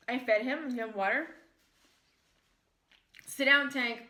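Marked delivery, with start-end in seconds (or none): 3.3-4.0 louder order to the dog; firm command. Real, not acted. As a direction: tell the dog off sharply.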